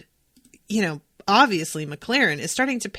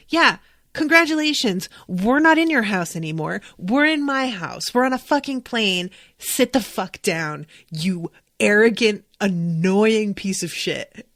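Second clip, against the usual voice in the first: furious flight attendant; 3 dB louder than usual. Retold or imitated. Attendant scolding the federal agent, loud mock rage. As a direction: tear into him like a fed-up attendant.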